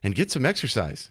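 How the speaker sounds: hammed-up singsong announcer talking down to kids; lightly mock a cheesy public service ad; mock kids' PSA, sing-song and overdone. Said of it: "nobody talks like that".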